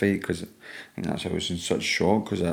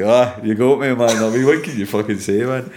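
laughing; 4 semitones higher, 7 dB louder than usual. Retold or imitated. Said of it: "I just laughing like".

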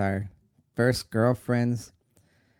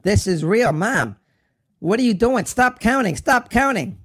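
desperate scream, building higher and louder; screamed plea; 10 semitones higher, 8 dB louder than usual. Retold or imitated. Son begging Mom to stop counting, screaming. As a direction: scream at her to stop, panic mounting. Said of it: "I screamed".

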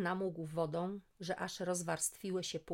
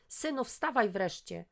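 impatient call; 3 semitones higher, 5 dB louder than usual. Acted. Mother waking son again.

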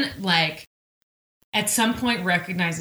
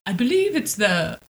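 slow, lightly voiced pompous lord; a hint of a haughty British lord; 2 semitones lower, slower than usual. Lord lecturing Claire, slow pompous voice. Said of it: "Lord Ponsington says".

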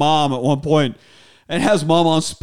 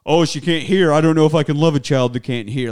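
louder mock fretting voice; mocking imitation; 5 dB louder, faster than usual. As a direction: mimic his doubts with scorn. Mocking the father's doubts.

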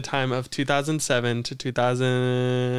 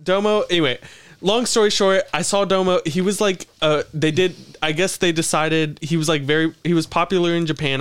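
excited; 4 semitones higher, 3 dB louder than usual. Real, not acted. Bursts back into excited story.

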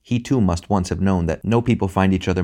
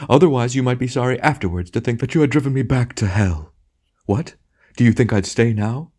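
theatrical wounded outrage, pitched up in bursts; storming; 5 semitones higher, 3 dB louder than usual. A narrator's reading. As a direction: ham tragedian's indignant tirade. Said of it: "it stormed".

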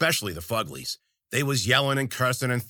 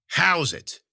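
higher, grand showstopper announcement; big pronouncement; 7 semitones higher, 4 dB louder than usual. A narrator's reading. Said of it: "about to make a big pronouncement".

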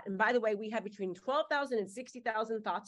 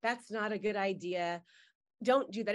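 negative inner voice; 4 semitones lower than usual. Retold or imitated. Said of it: "that negative voice in your head that says".

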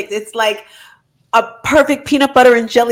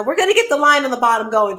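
ordinary delivery

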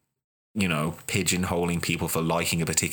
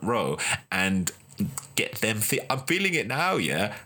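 higher, eager invitation to a new fan; pitched-up welcoming pitch to lapsed fans; welcoming excitement; 3 semitones higher than usual. Retold or imitated. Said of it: "Or we can say".

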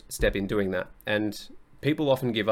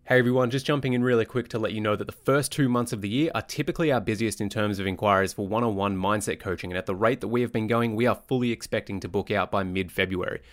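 ad read. Acted. Inserted ad read.

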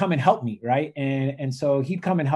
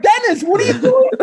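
high, loud, laughing out the question; laughing disbelief; 8 dB louder than usual. Retold or imitated. Speaker asks his brother why, laughing high. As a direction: ask it while cracking up. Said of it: "and I'm like".

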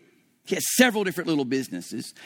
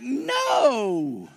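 defiant refusal; 4 semitones higher, much slower than usual. Retold or imitated. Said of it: "on the inside, I'm like".

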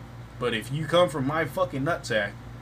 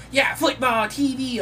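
put-on very high, loud child's cheer; toddler cheering; 12 semitones higher, 4 dB louder, slower than usual. Daughter asking for the game on TV, cheering high. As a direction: squeal it like a happy toddler. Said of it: "She's like".

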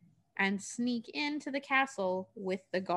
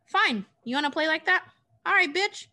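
higher, louder mock threat; challenging witch; 7 semitones higher, 5 dB louder than usual. Witch answers Dorothy's refusal, threatening. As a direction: throw it down as a dare.

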